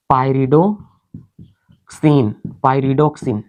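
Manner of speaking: term split by a pause, पायरिडो then क्सिन; पायरिडोक्सिन pieced out carefully; broken into parts. Shown as a demonstration. Teacher spells out a term by sound.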